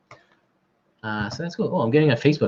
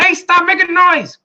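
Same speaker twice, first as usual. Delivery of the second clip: high, loud, slow mock scolding; annoyed neighbor; 6 dB louder, slower than usual. Neighbor scolding the honking from her window, hammed-up. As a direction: play the cranky neighbor leaning out the window. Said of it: "She goes".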